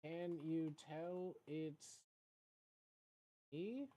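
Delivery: slow, soft put-on character voice; booty swagga voice. Streamer showing off the booty swagga voice, slow and soft. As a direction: drawl it out softly as your persona. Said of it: "this is my booty quagga voice".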